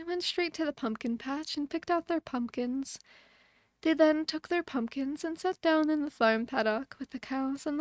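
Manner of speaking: put-on gentle bedtime-story reading to a small child; mommy voice. A narrator's reading. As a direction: read it like a mom tucking kids in. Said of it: "doing mommy voice the whole time".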